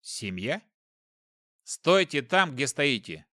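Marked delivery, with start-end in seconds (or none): 1.6-3.2 firm command. Acted. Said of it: "приказал я".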